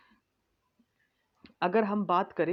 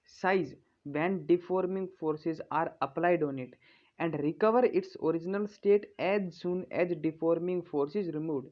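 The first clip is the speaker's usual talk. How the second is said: slow, measured reading of a definition to copy down; slow dictation read; much slower than usual. Acted. Teacher dictating a definition to students, slow and measured. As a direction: read it out word by word so students can write it. Reads English definition for notes.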